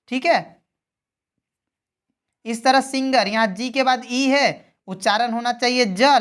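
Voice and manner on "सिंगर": "सिंगर" with g as in go; hard G. Shown as a demonstration. Teacher giving learners an exception, "सिंगर" with hard g. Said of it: "लेकिन हो रहा है ग".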